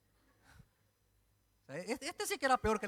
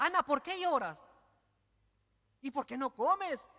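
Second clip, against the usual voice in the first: high, puzzled mock husband; mock clueless husband; 6 semitones higher than usual. Elcana asking his weeping wife, mock baffled and high. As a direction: play the baffled husband, a touch hammed.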